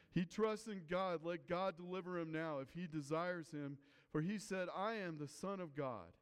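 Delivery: lightly acted jeer, starting high and easing off; mild mockery. Priests mocking Jesus for trusting God, mildly derisive. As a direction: pitch it up at first, a touch of derision. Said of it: "the scribes and the elders mocked".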